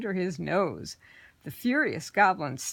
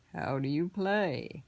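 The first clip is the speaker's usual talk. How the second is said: lightly voiced sly goblin; 2 semitones lower, 3 dB quieter, slower than usual. Horned goblin asks.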